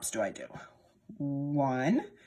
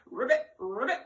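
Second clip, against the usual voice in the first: frog ribbit; 3 semitones higher than usual. Shown as a demonstration. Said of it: "What sound does a frog make?".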